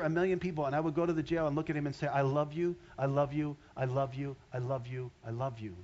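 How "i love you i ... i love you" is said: tender repetition. Pretend. Father to his jailed son, fading tender repetition. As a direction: fade the repeated I love you to a hush.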